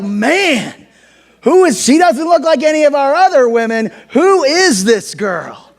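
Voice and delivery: high rush slowing to a stunned question; hammed-up amazement. Preacher as Boaz looking at Ruth, hammed-up amazement. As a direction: play it smitten, rushing then drawing out the question.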